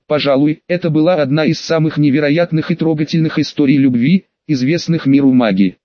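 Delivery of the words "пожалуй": usual speaking voice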